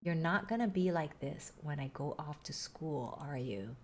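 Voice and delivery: echoing memory. Acted. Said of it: "keeps echoing in my mind".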